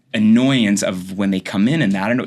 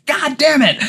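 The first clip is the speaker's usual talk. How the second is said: high, louder exasperated curse; 4 dB louder, slower than usual. Retold or imitated. Doctor cursing after the pregnancy test comes back positive, exasperated. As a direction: spit it out, annoyed at yourself.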